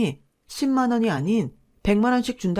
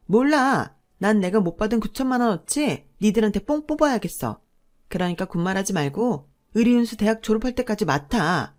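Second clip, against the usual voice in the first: stubborn defiance. Acted. Sister-in-law stubborn demand.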